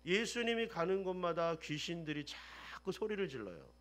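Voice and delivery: ordinary talk, nothing marked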